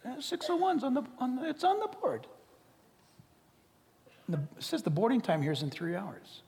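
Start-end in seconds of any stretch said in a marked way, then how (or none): 0.0-2.3 high, eager report; breathless news that it's there; high excited report back. Acted. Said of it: "They come back".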